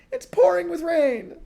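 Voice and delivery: high, loud shout through the door; shouting back. Acted. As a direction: yell to be let in from the rain. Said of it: "the person outside shouted back".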